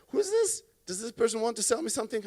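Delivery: high-pitched, wary questioning; suspicious inner voice. Acted. Callee wondering who is calling, suspicious and high. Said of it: "That's my user experience".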